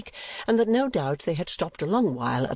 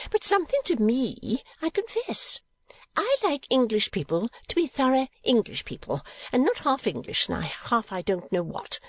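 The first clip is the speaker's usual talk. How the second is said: "something to me" pitched high and stressed; emphatic; 6 semitones higher than usual. A narrator's reading. Mother airing her opinion, "thorough" said emphatically. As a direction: press "English people" in a high, insistent voice.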